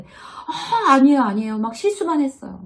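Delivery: high, loud embarrassed brush-off; a bashful employee squirming at praise, waving it off; flustered denial. Acted.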